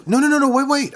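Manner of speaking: patient calling the doctor back in a panic; alarmed protest. Retold or imitated. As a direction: stop him before he leaves. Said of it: "he goes".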